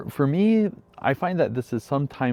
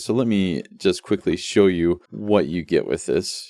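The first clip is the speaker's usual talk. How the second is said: ordinary talk, nothing marked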